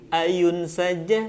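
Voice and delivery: slow "ayun saja" with lengthened vowels; swung delivery. Shown as a demonstration. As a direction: swing "ayun saja" gently and slowly. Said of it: "Ingat ayu".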